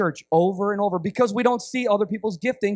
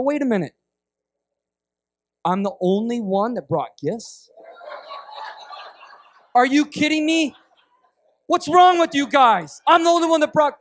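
acted outrage building to a loud, higher protest; indignant gift-giver; 5 semitones higher, 3 dB louder than usual. Gift-giver scolding those who brought nothing, indignant. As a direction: start puzzled, grow loudly offended. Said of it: "they're mad at everybody else".

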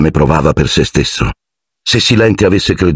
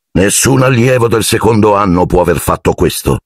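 firm; 4 semitones higher than usual. Acted. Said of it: "disse Silente con fermezza".

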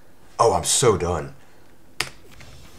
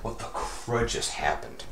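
much softer, breathy whispered repeat; 3 semitones higher, 10 dB quieter than usual. Real, not acted. Gamer whispers at the glitch, stunned. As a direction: breathe the question out in disbelief. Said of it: "repeated plain before".

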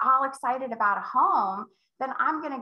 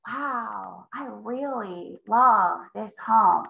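slow and hushed wonder; slow, calm buyer; much slower than usual. Retold or imitated. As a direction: let the love sink in slowly. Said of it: "If they're like".

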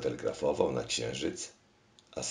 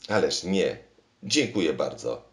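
louder exclamation of refusal; calling out; 2 semitones higher, 5 dB louder than usual. Acted. King refuses the machine's plan, calling out louder. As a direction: cry out to stop it. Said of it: "zawołał król".

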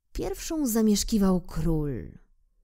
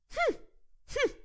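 king's hm; 5 dB quieter than usual. Acted. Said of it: "odparł król".

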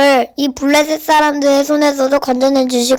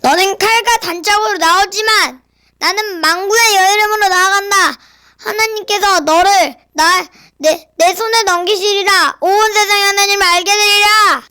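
bold shout; 5 semitones higher than usual. Acted. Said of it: "더 큰 소리로 외쳤지요".

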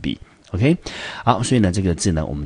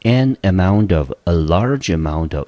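"an amount of" and "a large amount of" said slowly; slow model phrases; 4 dB louder, slower than usual. Shown as a demonstration. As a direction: read both phrases slowly for dictation. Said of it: "所以呢，一个是".

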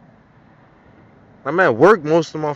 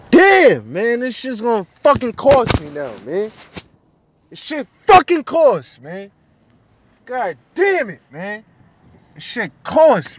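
pitched way up, groaning complaint; exasperated whine; 5 semitones higher than usual. Real, not acted. Moaning to the camera about ticket costs, high exasperated whine. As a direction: wail about the cost, higher.

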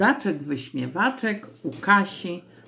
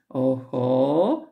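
lightly voiced pleased little creature; a hint of a muttering imp; murmuring imp; 3 semitones lower than usual. A narrator's reading. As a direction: hum it to yourself, drawn out. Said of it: "mruczał".

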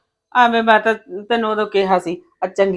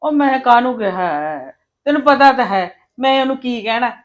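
higher, louder, offended; indignant protest; 4 semitones higher, 4 dB louder than usual. Acted. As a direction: insist you never said a thing. Elder sister-in-law protests innocence.

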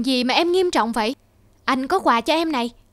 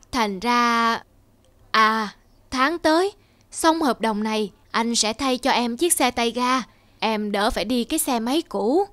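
put-on lower, slow, slurred drunken apology; tipsy husband; 3 semitones lower than usual. Tipsy husband apologises to his worried wife, slow slurred voice. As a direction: talk through the drink, placating.

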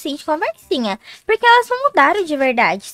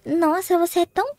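mocking; 3 semitones higher, slower than usual. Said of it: "Você fez um tom de deboche".

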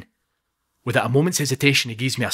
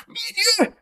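much higher, furious pointed threat; seething challenge; much faster than usual. Acted. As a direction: call him out man to man. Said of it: "he says, pointing at Aldo".

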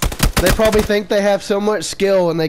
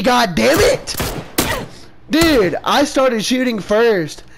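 raging gamer; 5 semitones higher than usual. Real, not acted. Raging after losing gunfight.

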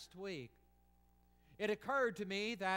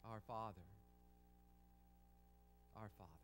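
reverent hush; 9 semitones lower, 14 dB quieter, faster than usual. Acted. Reverent quiet recitation of prayer.

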